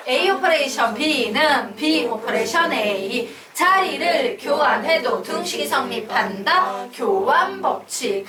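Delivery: slow, rhythmic classroom chant; recitation drill. Shown as a demonstration. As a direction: lead the class in reading aloud, drawn out. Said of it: "요것만 두 번 더 읽고 가겠습니다". (또박또박 늘여 읽는 암송)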